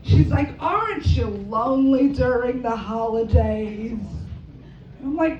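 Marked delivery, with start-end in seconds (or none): 0.6-4.0 slow, drawn-out grandma question; pitying grandmother. Retold or imitated. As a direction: imitate a concerned grandma, stretching the words.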